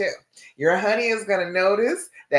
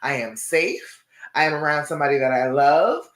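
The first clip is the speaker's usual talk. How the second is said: calming self-talk. Shown as a demonstration. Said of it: "You are telling your brain".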